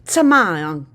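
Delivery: forceful loud yell to shoo. A narrator's reading. Guide shoos the children away, forceful yell. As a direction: bark it to scatter the children. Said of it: "forcefully yelled out".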